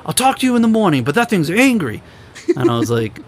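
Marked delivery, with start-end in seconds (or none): 0.0-2.0 high, spaced-out imitation; mock stoned guy. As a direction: play the stoned friend warning you. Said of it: "He's like".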